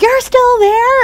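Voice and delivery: high, slow incredulous question; mock disbelief. Dentist receptionist shocked the patient still waits, high disbelief. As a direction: pitch it way up like you can't believe it.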